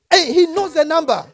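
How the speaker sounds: high, loud laughing delight; joyful laughing. Real, not acted. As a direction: laugh through the words. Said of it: "That's God".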